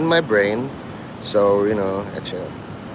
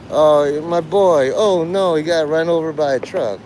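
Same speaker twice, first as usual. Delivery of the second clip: half-hearted wail of grief, raised a little; mock mourning; 3 semitones higher than usual. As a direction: pretend to lament a lost friend. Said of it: "I'm gonna cry a lot at his".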